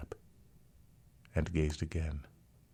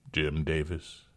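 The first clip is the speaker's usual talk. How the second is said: hollow-voiced; slower than usual. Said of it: "hollow-voiced".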